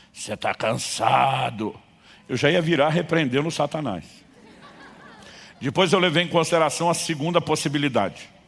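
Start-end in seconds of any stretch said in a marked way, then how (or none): 0.2-1.8 hoarse, low, raspy cavernous voice. Retelling a prank in a dark parking lot: imitating a raspy cavernous voice. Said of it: "uma voz rouca e cavernosa ressoa atrás de mim".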